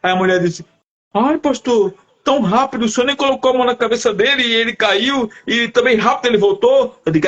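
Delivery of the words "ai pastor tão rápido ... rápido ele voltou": lightly voiced woman, somewhat higher; amazed woman. Woman marvelling to the pastor at the quick recovery, amazed. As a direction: marvel at it in a raised, imitated voice.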